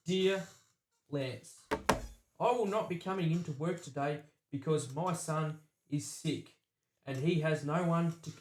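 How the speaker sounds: flat, even robotic reading. Retold or imitated. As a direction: read it out like a machine. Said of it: "it sounded like a robot".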